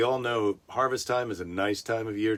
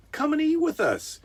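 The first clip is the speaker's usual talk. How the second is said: much higher, eager invitation; hammed-up Boaz. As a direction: overplay a gallant Boaz.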